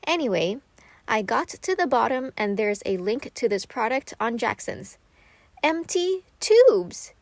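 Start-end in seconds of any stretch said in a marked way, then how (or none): 5.6-7.1 high, loud, drawn-out cry of delight; excited exclaim. Retold or imitated. Finding empty paint tubes for sale online, an excited slow exclaim. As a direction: stretch it out like finding a treasure. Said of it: "I was so excited".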